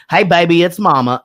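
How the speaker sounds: Texas mama calling her baby, lightly voiced; lightly put-on Texas accent. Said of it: "when I do a Texas accent".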